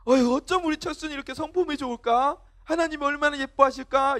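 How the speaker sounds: gushing praise. Acted. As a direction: lightly act an admiring elder. Acting out admirers praising Cheolsu.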